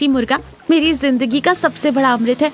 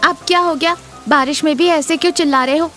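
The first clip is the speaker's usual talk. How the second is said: higher, annoyed questioning; exasperated wife; irritated wife; 5 semitones higher, faster than usual. Acted. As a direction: snap at a husband who called. Irritated wife answers husband's call.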